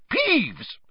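high, sharp angry call; angry yell. A narrator's reading. McGonagall yells angrily up at the poltergeist. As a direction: yell his name up at him. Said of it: "yelled an angry voice".

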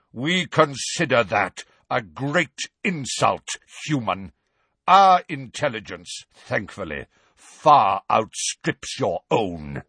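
slow, cold, offended; slowly, proud and insulted; offended centaur. Acted. Megorian insulted.

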